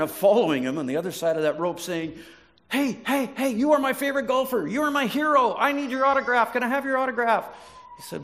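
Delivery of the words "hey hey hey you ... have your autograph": high, excited fangirl voice; gushing fan. Retold or imitated. Fan lady gushing over the golfer, high and excited. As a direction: squeal it like a starstruck fan.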